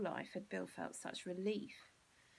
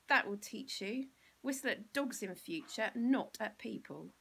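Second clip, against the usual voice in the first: louder, scolding yell; 2 semitones higher, 7 dB louder than usual. Acted. Bill yells a lesson at Mean Malcolm, loud and scolding. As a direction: lecture him at full volume. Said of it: "he yelled".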